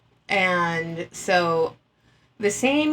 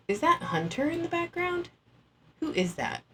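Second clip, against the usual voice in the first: high, quieter, surprised; surprised question; 8 semitones higher, 6 dB quieter than usual. Real, not acted. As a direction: peer at the photo in surprise. Spotting someone in photo.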